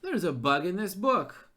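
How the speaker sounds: frustrated, emphatic "There's"; exasperated outburst. Real, not acted. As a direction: blurt out "There's a bug in this book." in frustration. Exasperated at gamebook error.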